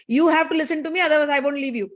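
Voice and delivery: mild acted anger, pressing her to obey; a touch of angry insistence; getting angry. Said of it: "He's getting angry now".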